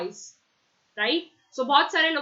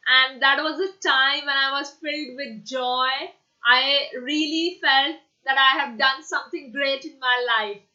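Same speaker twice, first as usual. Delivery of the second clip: joyful; 4 dB louder than usual. Shown as a demonstration. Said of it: "See, I am showing you emotions class".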